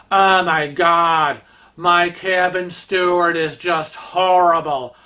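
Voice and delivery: slow, whiny snobbish complaint; lightly voiced spoiled socialite griping; moaning rich lady. Rich lady complains to a woman about her steward, whiny. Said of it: "she's bitching and moaning".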